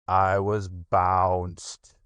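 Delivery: slow, mournful donkey voice; slow, glum old donkey; gloomy Eeyore. Acted. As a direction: sulk it out as Eeyore. Eeyore answers.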